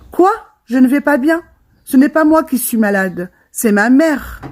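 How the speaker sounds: indignant protest. Acted. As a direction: push back, hurt and indignant. Protesting to uncle and mother.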